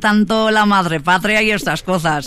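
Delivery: lightly put-on Castilian Spanish; imitated Spain accent. Host fond of the madre patria, imitating Spain accent. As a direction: play at talking like someone from Spain. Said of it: "cómo me gustaría hablar así".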